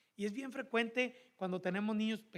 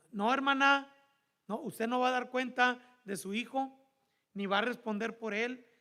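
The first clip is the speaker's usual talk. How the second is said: emphatic preaching; 3 semitones higher, 5 dB louder than usual. Real, not acted. Preacher rebukes congregation.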